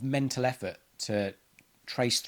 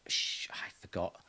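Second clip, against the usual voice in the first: low, slow secret whisper; whispered confession; 4 semitones lower, 8 dB quieter, slower than usual. Retold or imitated. Admitting to yourself, a slow guilty whisper.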